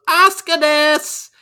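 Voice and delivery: put-on high, bright-eyed anime girl squeal. Retelling Asuka's promo in a cute anime voice. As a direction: chirp it like a cute anime character. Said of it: "channeling anime girls".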